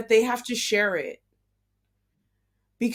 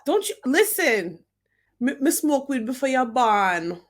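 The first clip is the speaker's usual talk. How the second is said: Jamaican patois; 3 dB louder than usual. Retold or imitated. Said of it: "I'm like".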